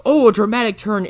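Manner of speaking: lightly hammed-up surprise; mild mock surprise. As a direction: play up a small dramatic reveal. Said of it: "it's not a surprise".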